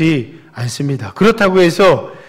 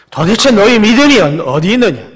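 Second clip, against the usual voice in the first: Jesus rebuking the fearful disciples, loud and higher; stern rebuke; 6 semitones higher, 8 dB louder than usual. Acted. Jesus scolding his disciples in the storm, stern loud rebuke. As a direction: call out the rebuke with full force. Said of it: "예수님이 심하게 질책하시는".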